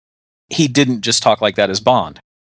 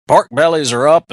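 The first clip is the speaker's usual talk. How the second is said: lightly mocking rural Louisiana twang; imitated Louisiana hick accent; 3 semitones higher, 3 dB louder than usual. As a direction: imitate a Southern stock-report announcer with a hick accent. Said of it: "sounded like this. And he's like".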